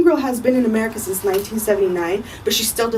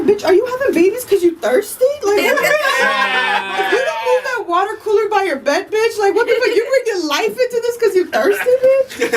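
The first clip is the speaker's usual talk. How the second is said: much higher, laughing indignant rant; mock outraged rant; 11 semitones higher than usual. Answering the nagging aunt with high laughing outrage. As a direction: blast her in disbelief, cracking up.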